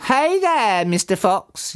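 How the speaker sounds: high-pitched taunting call; yelled. A narrator's reading. Bunce taunts Mister Fox from his tractor, yelling. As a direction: call out high, no real volume. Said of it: "yelled Bunce".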